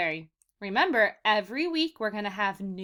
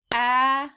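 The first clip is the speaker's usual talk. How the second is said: "Agriculture" split into four clapped beats, louder; clapped syllables; 6 dB louder, much faster than usual. Shown as a demonstration. Teacher clapping syllables for young students, loud and beat by beat. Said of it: "I'm going to clap as I'm counting the syllables".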